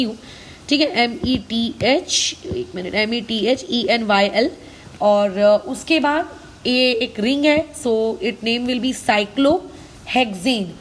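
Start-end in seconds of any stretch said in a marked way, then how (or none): 1.0-2.4 spelling it out. Shown as a demonstration. Spelling a name for students. 9.0-10.7 slow dictation. Shown as a demonstration. Dictating the ring's name.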